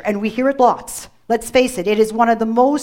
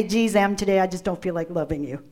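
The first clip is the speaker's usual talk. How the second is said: mock weary God; 3 semitones lower, 4 dB quieter, faster than usual. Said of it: "He doesn't wake up in the morning and say".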